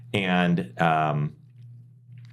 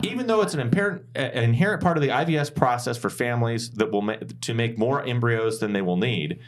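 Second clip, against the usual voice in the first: lightly high, indignant senator; a hint of an outraged senator; indignant Karen senator voice; 4 semitones higher than usual. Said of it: "my best, uh, angry, indignant Karen senator voice".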